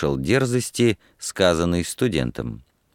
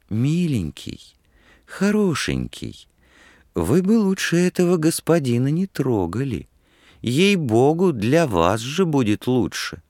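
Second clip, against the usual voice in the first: coaxing murmur in the ear; 7 semitones higher than usual. A narrator's reading. Woman warning a student privately, sweetly coaxing. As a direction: coax gently, as if into someone's ear. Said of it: "сказала ему шёпотом на ухо".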